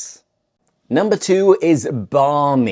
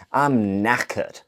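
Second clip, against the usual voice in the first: mock exhausted; 5 semitones lower, 5 dB quieter than usual. Shown as a demonstration. Example of being exhausted.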